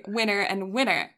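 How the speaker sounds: winner and winner in an American accent; American-accented "winner", R sounded at the end. Shown as a demonstration. Friend contrasting American accent with English for co-host, American accent. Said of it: "touch of American accent".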